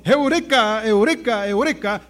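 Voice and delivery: mild acted cry, first one loudest; mock shouting. Scientist runs out telling everyone, mildly acted shout. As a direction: call out the discovery, easing off with each repeat. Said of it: "gritándole a todo el mundo".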